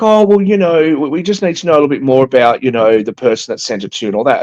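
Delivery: a hint of a breezy bank clerk brushing it off. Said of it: "They're like".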